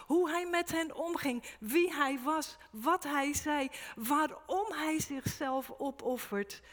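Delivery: preacher piling up all about Jesus; rising preaching. Acted. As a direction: hammer each "alles" from the pulpit. Preacher building to full force.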